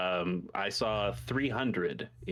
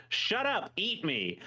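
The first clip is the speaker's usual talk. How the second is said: mock villain snap; 9 semitones higher, slower than usual. Robotnik voiced in retold movie.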